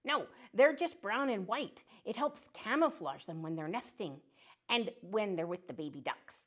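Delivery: put-on a chirpy little duck saying hello to kids; friendly duck puppet.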